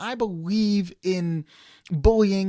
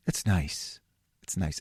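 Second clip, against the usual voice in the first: soft mock bliss; 12 semitones lower, 7 dB quieter, slower than usual. Mock contented sigh.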